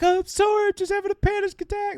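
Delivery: mock high-pitched whimpery girl voice; imitating an upset girl. Host mimicking a girl apologizing for her panic attack, mock upset high voice. Retelling a crying girl's reply.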